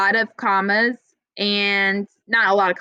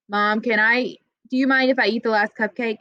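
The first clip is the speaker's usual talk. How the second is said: "Mom" rushed straight into the question with no pause; robotic run-on. Shown as a demonstration. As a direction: rattle it off fast like a robot. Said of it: "it sounds kinda like a robot if you say it".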